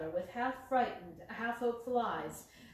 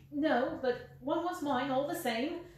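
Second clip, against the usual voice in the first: higher, louder plaintive whine; whined; 4 semitones higher, 4 dB louder than usual. Acted. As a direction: plead like a cringing little man. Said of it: "whined the little man".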